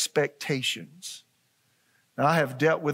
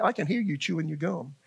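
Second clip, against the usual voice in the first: chuckling through the words; amused teasing aside; laughing; 2 semitones higher than usual. Real, not acted. Teasing the quiet congregation.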